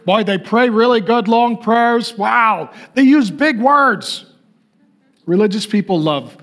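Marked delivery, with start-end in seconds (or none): 0.1-4.2 lightly voiced gushing bystander, a bit higher; a hint of a starstruck churchgoer; mock impressed onlooker. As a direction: play the dazzled crowd, mildly. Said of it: "man looks at the outward".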